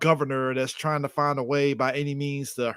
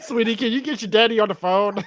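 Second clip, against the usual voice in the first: higher, giggly impression of the caller; mimicking the sweet phone voice while laughing; a hint of the caller's sugary tone; laughing quote; 6 semitones higher, 3 dB louder than usual. Quoting the phone call.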